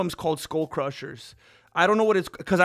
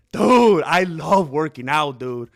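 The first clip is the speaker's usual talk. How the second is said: pumped up; 2 semitones lower, 7 dB louder, slower than usual. Real, not acted. Hyping himself up.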